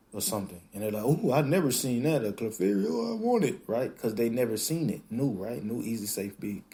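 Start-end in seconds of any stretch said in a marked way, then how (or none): 1.0-3.6 mock excited customer. Customer gushing over a Clefairy, squealing high with excitement. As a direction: voice jumping up high on I want it.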